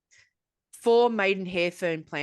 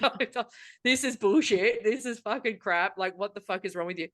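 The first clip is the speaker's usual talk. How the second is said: re-enacted fed-up rant, punched at first; exasperated. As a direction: vent like you've had enough, speeding up at the end. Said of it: "hear the exasperation in my voice".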